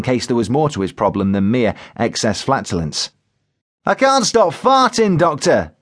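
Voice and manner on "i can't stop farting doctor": high, drawn-out distressed complaint; Joe Windass shouting. A narrator's reading. Joe tells the paramedic his problem, shouting in distress. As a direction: cry out the embarrassing problem to the doctor. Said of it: "he shouted".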